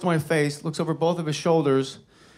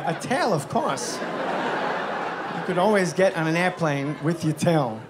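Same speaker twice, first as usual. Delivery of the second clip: Christopher Walken. Retold or imitated. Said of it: "Christopher Walken, hand to God".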